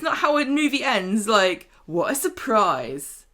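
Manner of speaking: indignant, then drawn-out mocking echo; annoyed, slowing into mock amazement; exasperated. Real, not acted. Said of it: "this really annoyed me".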